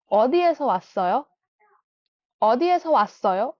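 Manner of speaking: 어디에서 왔어요 with pitch rising at the end; rising question. Shown as a demonstration. Teacher modelling Korean question intonation for students. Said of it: "intonation high जाती है and में".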